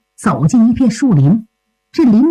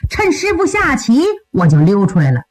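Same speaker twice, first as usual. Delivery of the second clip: lightly voiced young disciple, higher pitch; 小徒弟诉说缘由; 4 semitones higher than usual. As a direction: explain yourself eagerly to your senior, pitched up. (小徒弟略高声地向师兄解释)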